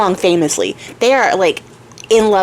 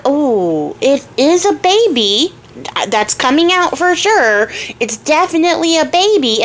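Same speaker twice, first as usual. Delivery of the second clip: midwife calmly announcing the obvious; mock midwife; 5 semitones higher than usual. Midwife reassuring the labouring queen, lightly mock-voiced.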